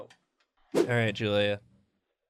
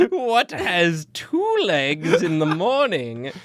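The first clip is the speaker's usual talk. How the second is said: slow, high, hammed-up sphinx riddle; mock riddle-teller; 3 semitones higher, slower than usual. Friend mocks the picture title as a grand old riddle. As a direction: intone it slowly like an ancient riddle, half laughing.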